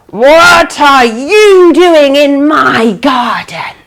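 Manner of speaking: slow, lightly voiced menacing witch; scowling witch. Witch catching the man in her garden, slow menace. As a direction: drag it out like a cross witch. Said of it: "the witch scowled at the man".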